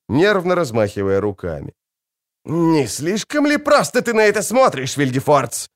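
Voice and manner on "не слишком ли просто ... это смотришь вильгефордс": high, nervous cry at the sorcerer; nervous shout. A narrator's reading. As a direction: call out, rattled and jumpy. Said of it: "крикнул он". (нервный высокий выкрик)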